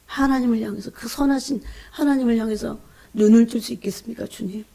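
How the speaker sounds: mild re-enacted cry to the Lord, fading at the end; imitated pleading outcry, trailing into softness; retold wailing prayer. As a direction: open insistently, then let the plea sink away. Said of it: "막 이러고 울부짖었어요".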